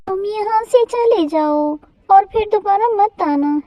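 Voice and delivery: wronged bird telling off the kite; indignant mother bird. Acted.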